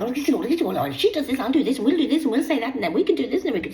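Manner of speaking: mocking impression. Mocking what she imagines the woman is planning, high and sing-song. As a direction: parody the other woman's busy plans. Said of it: "What's she doing?".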